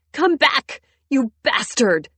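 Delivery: high, loud scream; shrill scream. A narrator's reading. Wife screaming as husband slams the door, shrill. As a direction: hurl it after him, screaming. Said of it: "I scream, my voice shrill and ugly".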